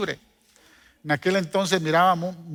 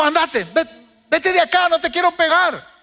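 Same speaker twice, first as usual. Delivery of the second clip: put-on high girl's voice; 11 semitones higher, 6 dB louder than usual. Girl sends him away.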